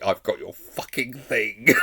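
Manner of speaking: slow, drawn-out snarled mimic line; imitating snarl. Fan imitating a character's threat line, slow and drawn out. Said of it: "Just the way she says the line".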